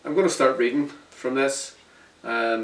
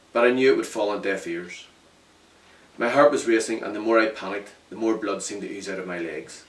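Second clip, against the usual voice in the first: steady first-person storytelling; story narration. A narrator's reading. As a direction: tell it plainly, letting it land.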